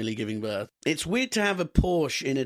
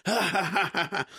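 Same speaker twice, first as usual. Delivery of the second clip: mock crowd laughing, pitched up; imitated audience laughter; 8 semitones higher than usual. Comedian imitating his audience at gigs, mock laughter. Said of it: "everyone went".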